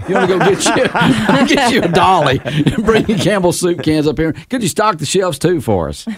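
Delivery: laughing through a mock request. Host mocking the store's request, laughing. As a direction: scoff at the idea while laughing.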